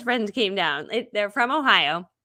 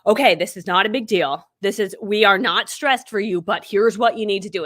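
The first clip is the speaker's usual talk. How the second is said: serious stepdad; 4 dB louder than usual. Retold or imitated. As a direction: lay out orders calmly, a touch drill-sergeant. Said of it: "he's very serious. He's former military".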